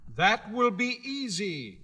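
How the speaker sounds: high, proud little gatekeeper; Guardian of the Gates. Acted. Gatekeeper laying down the rules to Dorothy, high and proud. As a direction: announce your post with self-importance.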